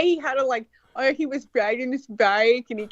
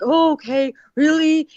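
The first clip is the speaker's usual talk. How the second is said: a hint of wide-eyed, louder buying-in; gullible Douglas; 5 dB louder, slower than usual. Douglas swallowing Ian's injury tale, a hint of eager belief. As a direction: lightly voice a friend falling for the story. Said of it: "and then Douglas like".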